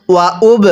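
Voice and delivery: উব with the ব bounced, a small echo after it; উব with qalqalah bounce. Shown as a demonstration. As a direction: let the ব in উব rebound. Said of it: "কলকলা করবেন".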